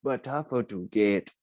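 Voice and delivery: hammed-up tribal elder giving hunting advice; mock tribal hunter. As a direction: play the solemn hunter warning his tribe, half laughing. Voicing tribesman hunter, mocking.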